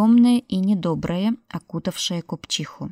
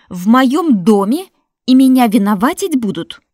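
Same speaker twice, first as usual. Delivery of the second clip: loud, higher indignant shout; outraged shouting; 5 semitones higher, 11 dB louder than usual. Acted. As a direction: shout back in wounded fury. Widow outraged at accusation.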